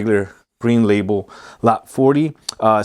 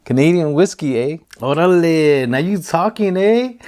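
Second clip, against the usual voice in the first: lightly put-on Canadian accent sliding into cholo, rising higher as it goes; Canadian accent turning cholo; 4 semitones higher than usual. Shown as a demonstration. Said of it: "I just sounded like a cholo".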